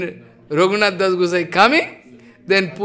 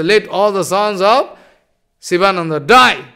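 angry curse. Acted. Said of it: "showing angry attitude".

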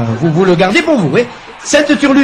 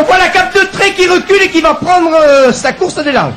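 lively play-by-play call; excited sports commentary; 6 semitones higher than usual. Acted. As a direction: call the run-up like live radio. Commente l'élan du buteur. (commentaire sportif animé)

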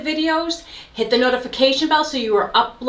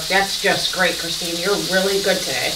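sarcastic self-talk; 4 semitones lower than usual. Real, not acted. Sarcasm at herself.

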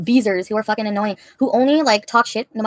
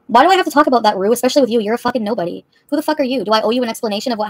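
angry; 4 dB louder than usual. Real, not acted. Defensive rant.

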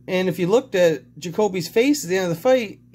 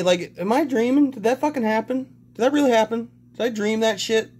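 pitched up, asking in stunned disbelief; can't believe what just happened; 4 semitones higher than usual. Real, not acted. Vlogger asks viewers if he dreamed it, stunned disbelief. Disbelief after nearly puking.

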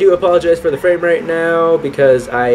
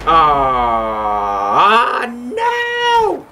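startled shout. Real, not acted. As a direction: cry out in shock. Startled shout while driving.

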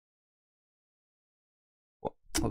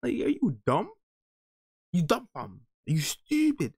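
incredulous scolding; 7 semitones higher than usual. Real, not acted. Scolding the person in the video.

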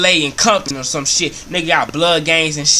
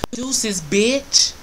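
a singer's voice; 6 semitones higher than usual. Acted. Roach leaving like a singer, high imitation croon. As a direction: toss it off lightly in a high voice. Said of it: "Sound like Chris Brown".

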